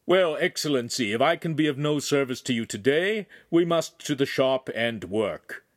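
politely but firmly excuse yourself to a lord; polite lensmaker. Acted. Voices the lensmaker placating noble.

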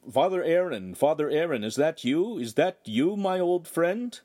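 put-on high, eager calling to an old friend; excited hailing. A narrator's reading. Translation of the excited shout.

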